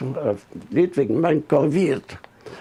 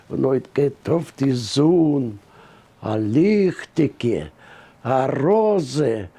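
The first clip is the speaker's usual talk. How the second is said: slow, measured recitation with pauses between lines; poem recitation; 3 semitones lower, slower than usual. Acted. Man recites a learned spring poem to the interviewer, measured recitation. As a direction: recite it line by line, drawing out the line endings.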